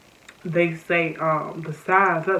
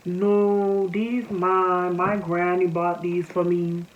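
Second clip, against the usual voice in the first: imitated Charleston accent, drawn out; much slower than usual. Roommate denying she took the socks, in a Charleston accent. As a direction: put on her Charleston accent, slowing toward the end. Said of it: "'cause she's from Charleston, I'm gonna give y'all the accent".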